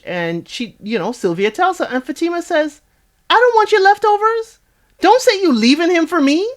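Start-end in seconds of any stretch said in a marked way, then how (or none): 3.3-6.5 high-pitched mock indignant retort; imitated anger, pitched way up; retold indignation. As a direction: throw it back, imitating an offended rival. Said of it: "So Fatima gets very angry".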